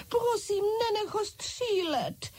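high, slow frightened plea; frightened pleading. A narrator's reading. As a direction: beg him not to shoot. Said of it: "křičela malá Francouzka". (vysoká vyděšená prosba)

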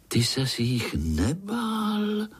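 lightly voiced boy cutting in; little boy's question. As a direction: interrupt with wide-eyed curiosity. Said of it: "No samozřejmě Pája".

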